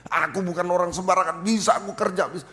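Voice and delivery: mild proud protest, gaining force; retold arrogance. Preacher imitates their former proud self, mildly defiant boast. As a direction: insist you are somebody, a touch haughty. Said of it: "wah, sombong sekali".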